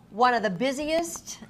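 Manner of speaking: breathy hushed praise, slowed; awed whisper of praise; hushed gush. Real, not acted. Gushing host intro, whispered.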